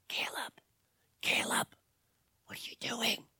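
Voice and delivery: urgent hushed whisper. A narrator's reading. David grabs Caleb's arm to stop him, urgent whisper. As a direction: whisper it sharply to get his attention. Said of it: "and he whispered".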